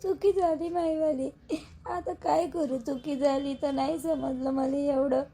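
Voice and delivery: tearful voice with audible crying. Acted. Bride in her room, crying over her mistake. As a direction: choke the words out through tears.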